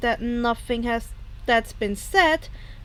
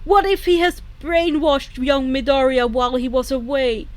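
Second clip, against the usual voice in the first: angry protest; 5 dB louder than usual. Acted. All Might protesting angrily.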